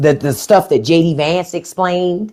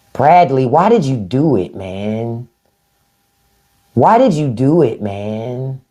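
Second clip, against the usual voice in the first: mock lament; 5 semitones lower, slower than usual. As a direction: plead with him sadly. Lamenting to Bradley Cooper.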